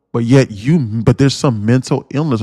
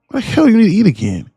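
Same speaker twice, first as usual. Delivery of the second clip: fast, high, incredulous outburst; exasperated rant; 8 semitones higher, faster than usual. Real, not acted. Ranting at viewers who eat after waking, exasperated. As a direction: fire it off in disbelief.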